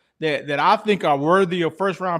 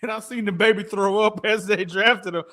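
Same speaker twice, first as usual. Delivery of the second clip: normal talking voice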